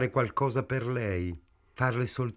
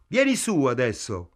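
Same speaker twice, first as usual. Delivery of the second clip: yelling; 2 semitones higher, 4 dB louder than usual. A narrator's reading. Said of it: "urlò Ida".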